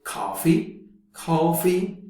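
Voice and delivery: coffee with an American open vowel. Shown as a demonstration. Teacher showing American coffee, American accent. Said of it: "in American English".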